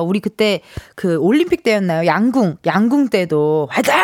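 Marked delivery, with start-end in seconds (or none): 3.7-3.9 imitated cheer shout. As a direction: let out a long competition battle cry. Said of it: "서로서로 막 이렇게 소리 질러주잖아요".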